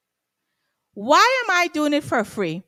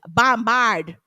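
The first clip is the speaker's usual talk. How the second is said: Guyanese accent; 3 dB louder than usual. Shown as a demonstration. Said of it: "in my Guyanese voice".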